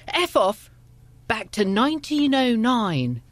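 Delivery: high, drawn-out mock heckle; imitated shout. Van driver heckling woman with parasol, imitated shout. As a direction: jeer it slowly, as if from a passing van. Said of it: "he shouted out".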